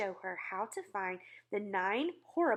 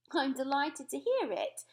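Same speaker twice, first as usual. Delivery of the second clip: smiling; 5 semitones higher, 5 dB louder than usual. A narrator's reading. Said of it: "still smiling".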